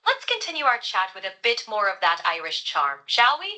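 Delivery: light Irish lilt; Irish accent. Pretend. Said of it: "Why don't you bring that back for us".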